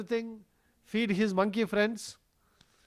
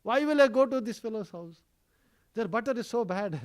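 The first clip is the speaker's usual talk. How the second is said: higher-pitched mock-tearful child; innocent protest; 5 semitones higher, 3 dB louder than usual. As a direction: plead innocence to mother, lightly hammed-up. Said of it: "Krishna very innocently, he will rub his eyes, you know, as if he's crying".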